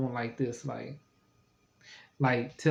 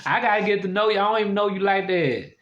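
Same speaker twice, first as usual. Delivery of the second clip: emphatic; 6 semitones higher, 3 dB louder than usual. Real, not acted. Emphatic after laugh.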